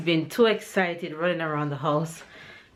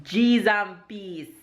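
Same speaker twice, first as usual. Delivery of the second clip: Jamaican expression; slower than usual. Shown as a demonstration. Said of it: "the Jamaican expression for today is".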